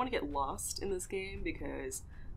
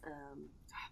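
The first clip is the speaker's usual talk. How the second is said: whispered; 4 semitones lower, 11 dB quieter than usual. Real, not acted. Hesitating mid-sentence.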